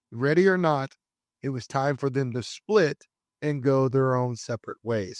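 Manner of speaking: measured documentary-style read; scripted narration. Acted. Host introducing the third generation Supra, scripted narration. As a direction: present it as a dramatic product history. Reads scripted car history.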